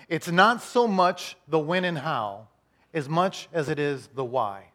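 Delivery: slow and weighty, each word set apart; slow, deliberate. Shown as a demonstration. Pastor to congregation, slow and deliberate. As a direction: spell it out slowly for note-takers. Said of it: "Write this down".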